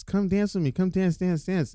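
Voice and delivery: high, whiny coaxing voice; pleading girlfriend. Retold or imitated. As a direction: beg him to dance, pleading. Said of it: "she's trying to get him to dance".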